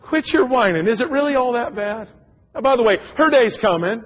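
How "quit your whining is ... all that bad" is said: wife's retort. Retold or imitated.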